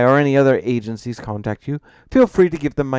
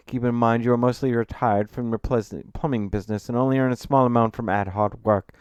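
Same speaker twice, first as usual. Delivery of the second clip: louder, assured professional voice; authoritative, confident; 4 semitones higher, 7 dB louder than usual. A narrator's reading. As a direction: lay down the facts with confidence. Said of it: "presenting a tone of authority and confidence".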